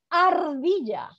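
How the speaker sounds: ARDILLA with a long, strongly rolled R. Shown as a demonstration. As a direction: draw out the trilled R in Ardilla.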